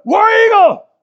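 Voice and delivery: War Eagle bellowed at the TV; football cheer. Retold or imitated. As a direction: roar it like a fan in the stands. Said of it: "you go".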